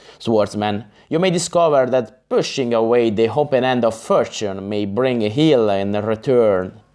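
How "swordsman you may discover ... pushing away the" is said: plain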